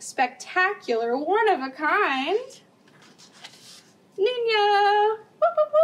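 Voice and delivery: loud, high ring announcer hype; announcer call. Acted. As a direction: pump up the crowd for Nino. Ring announcer introducing Nino.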